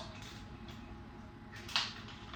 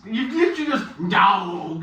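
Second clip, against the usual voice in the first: mock American accent; 8 semitones higher, 9 dB louder than usual. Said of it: "why are you doing American accents?".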